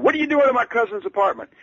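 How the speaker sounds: high, loud, brusque demand; high-pitched, loud impersonation of a famous singer on the phone; a famous singer shouting. Retold or imitated. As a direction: bark it down the phone like a star. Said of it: "shouting so loudly".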